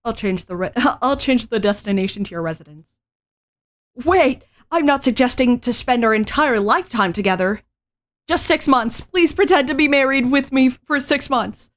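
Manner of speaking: put-on high, pleading young woman; anime heroine voice. Reads female lead's lines.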